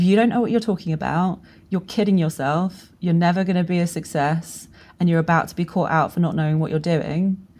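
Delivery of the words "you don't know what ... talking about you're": plain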